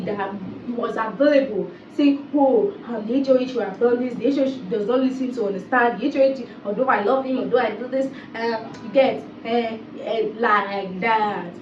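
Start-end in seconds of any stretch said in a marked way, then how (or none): 2.3-11.5 imitating Sabrina's foreign accent. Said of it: "That's how she talks".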